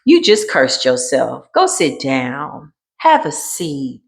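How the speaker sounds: lightly voiced onlooker, low and unhurried; a hint of a scolding viewer, low and slow; cross watcher. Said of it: "watching this video like".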